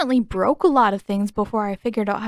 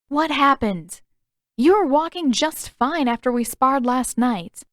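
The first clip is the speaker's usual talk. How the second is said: louder, higher demanding question; 4 semitones higher, 4 dB louder than usual. Acted. Katara demanding Zuko explain his limp, louder. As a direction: press him for an answer.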